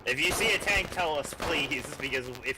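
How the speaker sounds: high urgent shouted orders; shouting orders over battle. Real, not acted. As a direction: yell it over the gunfire. Tank battle, warning crew.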